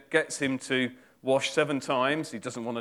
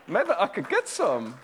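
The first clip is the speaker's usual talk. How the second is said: higher, fuller voice with GET leaned on; a lightly acted sly servant, bolder now; scheming servant; 5 semitones higher than usual. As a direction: say the greedy plan aloud, now decided. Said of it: "that's my attempt at drama".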